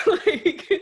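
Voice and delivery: high giggle; laugh. Real, not acted. After the punchline to the host, giggling high. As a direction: break into a giggle.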